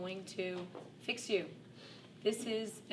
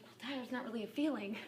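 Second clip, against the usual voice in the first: laughing correction; 4 semitones higher, faster than usual. Retold or imitated. Mother corrects son, laughing.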